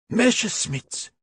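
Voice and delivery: high, slow exultant call; excited shout. A narrator's reading. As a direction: cry out in relief. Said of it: "shouted the Stubbs".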